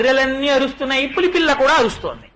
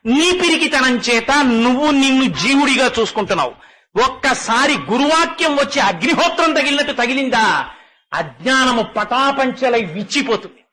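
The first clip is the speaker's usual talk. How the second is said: rising fervent sermon to a cry; preacher telling the listener they are the Self, building to a cry; impassioned preaching. Acted. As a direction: drive it home to the listener. Climactic spiritual exhortation.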